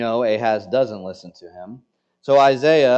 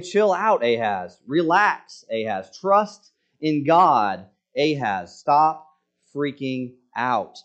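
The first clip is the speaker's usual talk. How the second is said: blunt pep talk; 2 semitones higher than usual. Retold or imitated. God's words retold as blunt pep talk.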